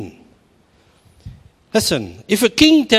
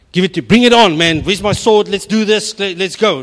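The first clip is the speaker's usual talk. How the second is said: eager; 3 semitones higher, 5 dB louder than usual. Pretend. Eager Gideon imagined.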